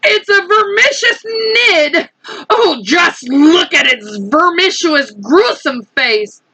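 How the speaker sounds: horror. Acted. Police chief horrified.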